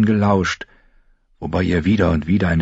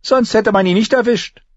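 high, louder dry interjection; dry jab; 4 dB louder than usual. A narrator's reading. Arya cuts in about Lommi, dry. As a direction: cut in dryly. Arya's character voice.

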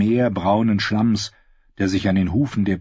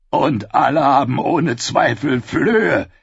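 dry knight quip; 5 semitones higher, 4 dB louder, slower than usual. Acted. Sir Hyle quips.

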